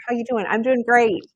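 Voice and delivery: high-pitched mock small talk; hollow cheerfulness. Acting out someone saying they're fine while feeling like crap, falsely cheerful. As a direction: put on a high, perky front. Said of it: "I'm not just saying".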